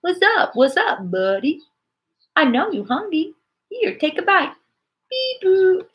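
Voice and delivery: high, childlike Southern drawl imitating a little boy; imitating a small boy's Southern drawl at a safari park. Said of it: "thick Southern drawl".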